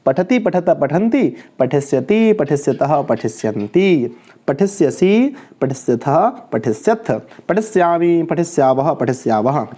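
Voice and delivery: rhythmic sing-song verb drill; conjugation recitation. Shown as a demonstration. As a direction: chant the forms in threes, stretching endings. Teacher recites the verb tables.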